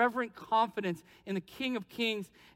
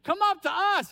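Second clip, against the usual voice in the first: taunting invite pitched higher; mocking call; 5 semitones higher than usual. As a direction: sneer the invitation up the hill. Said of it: "You can almost hear them joking".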